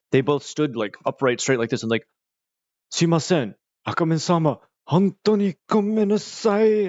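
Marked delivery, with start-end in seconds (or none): 2.9-6.9 higher, bowing-and-scraping Japanese apology; groveling mock apology. Embarrassed officers apologize.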